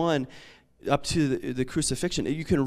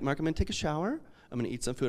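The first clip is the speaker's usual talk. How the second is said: calm and collected; 8 dB quieter, much faster than usual. Retold or imitated. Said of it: "calm and collected".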